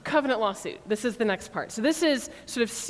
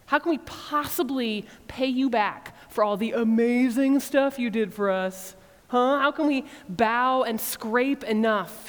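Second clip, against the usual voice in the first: exaggerated sarcasm. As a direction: pile on the mock offers, more ridiculous each time. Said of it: "increasingly sarcastic and exaggerated".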